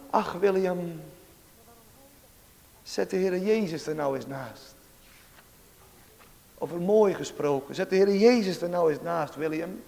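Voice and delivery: quiet, earnest appeal; gentle reproof. Retold or imitated. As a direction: imitate a boy tenderly correcting his friend. Disabled boy gently corrects his friend.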